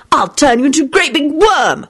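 high, childish mock-yelled threat. A narrator's reading. Timothy threatening Jamie with magic, yelling. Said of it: "yelled Timothy".

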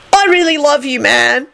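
high, besotted declaration; high lovestruck dude; happy yelp. A narrator's reading. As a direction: yelp your love in a high voice. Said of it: "Kenny yelped happily".

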